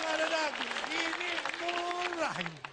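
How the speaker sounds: high, insistent market-seller voice; Madurese seller. Retold or imitated. Seller pushing a haggling customer, high Madurese pitch. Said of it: "ngomong-ngomong soal Madura".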